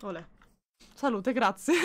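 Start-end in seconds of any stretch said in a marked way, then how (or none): 0.0-0.2 sneezing. Real, not acted. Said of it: "Sono ancora un po' raffreddata".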